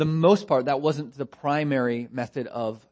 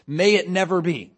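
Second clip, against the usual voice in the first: strong, louder emphatic reading; 4 semitones higher, 6 dB louder than usual. Retold or imitated. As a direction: say it as a firm, emphatic no. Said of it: "he's very emphatic in saying no".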